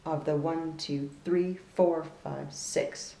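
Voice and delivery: slow counted beats, stressing three and six; teacher counting out the accents. Shown as a demonstration. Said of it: "really like to emphasize the".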